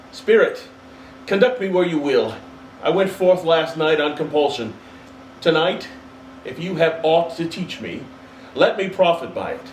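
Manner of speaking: put-on a humbled old man asking; Scrooge pleading. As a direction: yield to the spirit earnestly. Scrooge submits to ghost.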